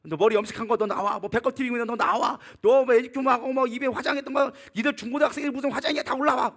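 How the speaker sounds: imitated fierce pastor scolding teenagers; 윤석천. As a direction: order the kids up front, hammed-up. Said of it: "윤석천 목사님이 그때만 해도요".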